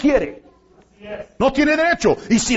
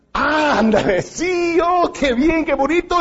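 mock-giddy teenage girl, pitched higher; 3 semitones higher than usual. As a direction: tease it like an excited girl with her first boyfriend. (imitación burlona de una adolescente emocionada, voz más aguda)

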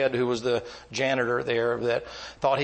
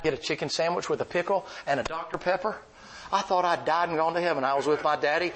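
excited; 4 semitones higher than usual. Real, not acted. Excited childhood memory of the races.

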